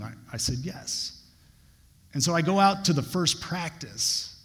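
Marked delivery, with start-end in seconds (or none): 0.6-1.2 barely voiced, breathy yes; a near-whispered yes to the coaches; timid yes. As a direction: answer almost under the breath.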